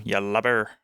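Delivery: lightly voiced pirate; pirate voice with a sounded R; pirate name-calling. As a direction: call someone out like a pirate. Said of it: "they call each other lubbers".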